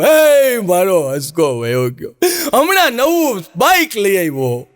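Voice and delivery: slow wailing mother's lament; drawn-out mourning cry, hammed up; mock lament. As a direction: stretch each word as she mourns her son.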